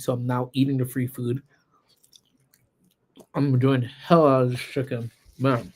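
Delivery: talking while chewing; mouth full. Real, not acted. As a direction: speak through a mouthful. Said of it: "I'm eating as I'm talking".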